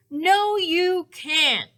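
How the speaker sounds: high, loud, slow protest; yelp. A narrator's reading. Douglas stops the bird taking his hat, loud high yelp. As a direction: yelp it out in alarm. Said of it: "yelped Douglas".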